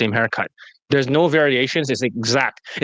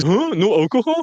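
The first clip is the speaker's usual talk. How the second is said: mock disbelief; 5 semitones higher than usual.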